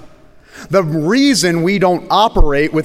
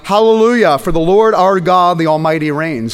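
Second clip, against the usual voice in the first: louder, lifted hallelujah cry; 3 dB louder than usual. Acted. Pastor voicing the heavenly multitude, crying out. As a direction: ring it out like a multitude. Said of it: "crying out".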